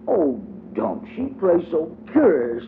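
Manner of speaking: high little girl's voice, playing hostess; child voice for Diddy. A narrator's reading. Diddy greets her playmate at the door, high childlike voice. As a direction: lift into a small girl's prim voice.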